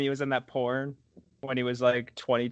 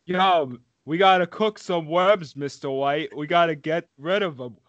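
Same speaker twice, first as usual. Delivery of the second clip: Jesse Pinkman impression. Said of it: "Very close to Sylvester St".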